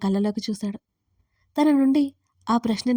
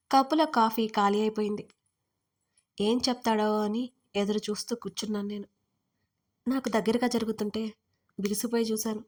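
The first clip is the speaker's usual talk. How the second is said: ordinary delivery, nothing marked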